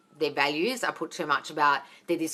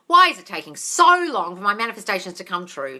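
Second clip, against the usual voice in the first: loudly imitating an impatient follower; impatient mock complaint; 8 dB louder than usual. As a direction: mimic a fed-up questioner. Mimics a viewer's impatient question.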